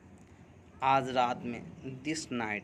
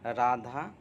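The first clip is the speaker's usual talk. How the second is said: slow dictation; much slower than usual. Shown as a demonstration. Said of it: "अब क्या बनाएंगे".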